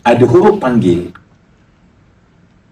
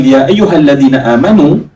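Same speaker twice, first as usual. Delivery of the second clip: calling out; 2 semitones higher than usual. Shown as a demonstration. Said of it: "Sekarang saya cuba panggil".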